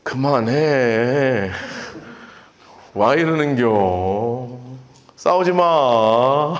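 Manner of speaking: low, very slow drawled dialect plea; lazy country brother voice; weary older brother. Retold or imitated. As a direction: break up the sisters' fight, tired and slow. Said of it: "그거를 지켜보는 오빠는".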